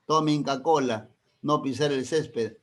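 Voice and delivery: slow sign-like announcement; slogan read. Shown as a demonstration. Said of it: "esa es función apelativa". (lectura lenta de anuncio)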